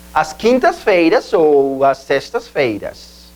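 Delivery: slow Portuguese "As quintas-feiras ou as sextas-feiras"; Portuguese days. Shown as a demonstration. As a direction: slowly model the Portuguese days. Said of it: "en portugués sería".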